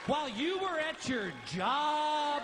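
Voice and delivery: high, shrill-pitched mock wife screech; hammed-up wife yelling back at him; wife screams. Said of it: "Your wife screams".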